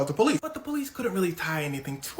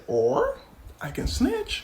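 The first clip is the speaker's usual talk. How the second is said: very high-pitched mock offer; sly bargaining; much slower than usual. Facing twenty years, he offers to snitch, high-voiced. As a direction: float the deal in a squeaky high voice. Bargains over prison sentence.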